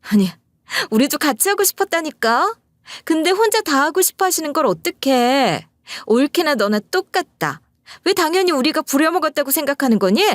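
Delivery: high-pitched, snippy sister-in-law; tart, stinging voice. A narrator's reading. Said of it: "신우가 톡 쏘는 목소리로". (톡 쏘는 높은 목소리로 따지듯이)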